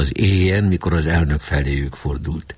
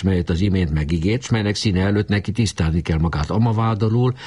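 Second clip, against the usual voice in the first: ordinary delivery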